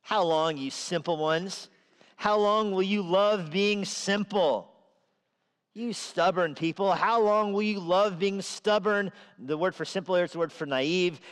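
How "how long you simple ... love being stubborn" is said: wisdom scolding. Acted. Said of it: "That's how wisdom starts her speech".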